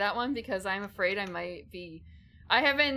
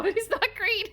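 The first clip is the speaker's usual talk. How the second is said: laughing; 13 semitones higher, 6 dB louder than usual. Real, not acted. Laughs while joking.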